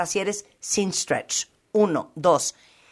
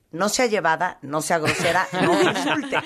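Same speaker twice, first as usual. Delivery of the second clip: laughing protest. Retold or imitated. Retold protest to saleswoman, laughing.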